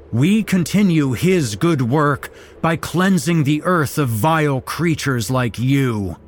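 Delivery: high, loud fanatic declaration; loud ritual pronouncement; cultist shouting. A narrator's reading. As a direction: proclaim the cleansing with zeal. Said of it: "one of them shouted".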